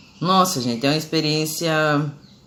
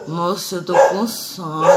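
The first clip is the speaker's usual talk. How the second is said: drowsy; 2 semitones higher, slower than usual. Retold or imitated. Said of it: "eu fiquei grogue da anestesia".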